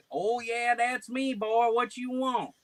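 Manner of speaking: high, goofy prank-call voice; put-on prank persona. Plays himself baiting the caller.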